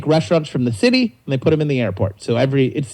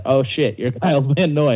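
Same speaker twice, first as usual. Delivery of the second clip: surprised realization. Retold or imitated. Realizing who the customer is.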